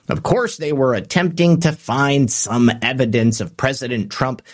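dry sarcasm in a commentator's tone; sarcastic. Real, not acted. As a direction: say it with knowing, understated sarcasm. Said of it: "you catch the sarcasm in my tone".

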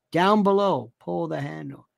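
put-on Southern accent, falling away; lightly hammed-up Southern voice; Southern affectation. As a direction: say it with a mock Southern lilt. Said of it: "I get to read it in this voice".

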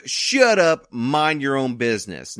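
mock Southern accent, rude brush-off. Bulldozer worker tells the neighbor off, in a mock Southern accent. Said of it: "why did I give them a Southern accent".

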